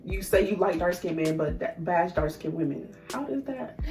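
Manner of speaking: exasperated. Real, not acted. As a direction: call them out, fed up. Scolding self-hating women.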